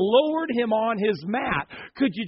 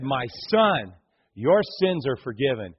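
gentle forgiveness; 5 semitones lower than usual. Acted. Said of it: "he said".

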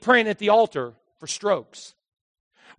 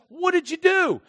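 questioning God; 12 semitones higher, 4 dB louder than usual. Pretend. God voiced questioning Adam.

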